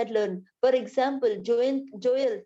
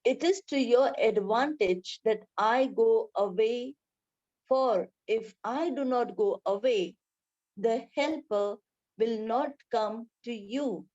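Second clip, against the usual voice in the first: scripture reading. Acted. Reads John sixteen aloud.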